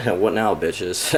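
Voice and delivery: drawn-out gloating taunt; taunting the haters, slow and smug; mock taunt. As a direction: stretch it slowly, savoring the win. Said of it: "just be like".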